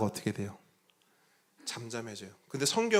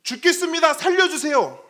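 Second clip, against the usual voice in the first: high, loud drowning plea; desperate cry for help; 10 dB louder than usual. Retold or imitated. Disciples crying out to Jesus in the storm, high and loud. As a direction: cry out as if going under. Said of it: "없어요".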